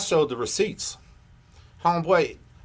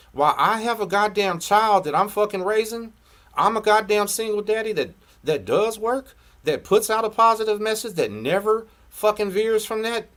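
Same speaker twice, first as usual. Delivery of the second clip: raised, high-pitched heated tirade; angry rant; 5 semitones higher than usual. Real, not acted. Single dad berating a rival vlogger, angry. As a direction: let real exasperation push the voice up.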